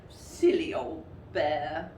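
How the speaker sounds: slow, fond and gentle; tender, like hugging a friend; loving. Acted. Christopher Robin to stuck Pooh, slow loving tenderness. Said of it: "in such a loving voice".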